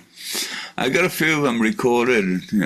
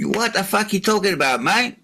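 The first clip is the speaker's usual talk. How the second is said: higher, incredulous rising mate; mock outraged Aussie; 8 semitones higher than usual. Man to solar panel salesman, higher mock incredulous retort. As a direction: play dumb, pitched up and indignant. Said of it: "I said".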